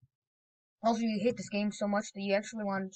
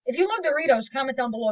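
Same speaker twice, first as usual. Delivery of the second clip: higher, louder upbeat pitch for lovers; excited hype; 4 semitones higher, 6 dB louder than usual. Acted. Telling Doritos lovers to comment, excited. Contrasting love vs hate Doritos.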